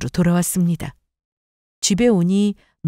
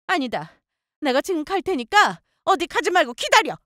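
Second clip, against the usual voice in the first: high-pitched angry threat; fiery anger; 8 semitones higher, 3 dB quieter than usual. A narrator's reading. Mother-in-law announces she is coming over, fuming. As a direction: order them to wait, fuming. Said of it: "어머님은 그렇게 불같이 화를 내시고는".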